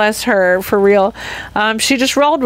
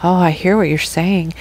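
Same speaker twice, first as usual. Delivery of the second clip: a lightly mocking, lower counselor tone on hear; therapist voice; 3 semitones lower than usual. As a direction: put on a stock therapy-speak reply. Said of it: "like, therapy".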